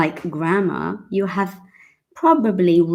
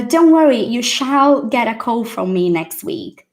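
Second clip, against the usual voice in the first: eager learner; 5 semitones higher than usual. Pretend. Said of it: "You really want to say".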